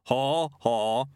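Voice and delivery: a flat, spoken-out laugh. Acted. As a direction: say ha ha, don't laugh. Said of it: "it said it rather than laughed".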